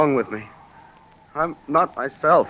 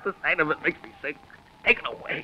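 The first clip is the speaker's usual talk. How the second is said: horrified whisper; 8 dB quieter than usual. Acted. Horror at water canister.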